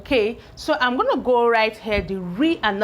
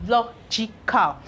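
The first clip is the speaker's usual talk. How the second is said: "logical" said slowly as the last syllable is added; slow blending; slower than usual. Shown as a demonstration. Teacher to pupils, completing the word slowly. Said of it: "So I have logica".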